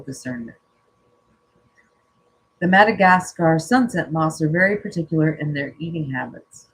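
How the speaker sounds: calm, measured reading of a card message; reading aloud. Acted. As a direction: read it out gently and evenly, like a spiritual message. Reads oracle card text aloud.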